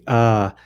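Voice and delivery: over-pull the "ah" into a long vowel; lengthened demonstration "ah". Shown as a demonstration. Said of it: "sometimes people pull it".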